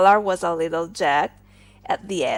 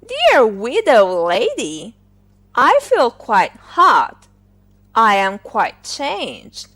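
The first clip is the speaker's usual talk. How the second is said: loud, put-on gallant voice growing louder; overheated suitor; 3 semitones higher, 7 dB louder than usual. Collar proposing to the hot iron, loud and hammed-up. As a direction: swoon and propose as the heat rises.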